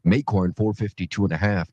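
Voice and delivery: normal talking voice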